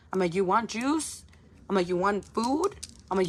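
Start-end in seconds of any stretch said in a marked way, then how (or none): 0.3-1.2 put-on higher, rising question to a child; insistent parent question. Mother asks frustrated child what they want, insistent. 1.9-2.8 higher pitch with a rising end; insistent parent question. Retold or imitated. Mother asks frustrated child what they want, insistent.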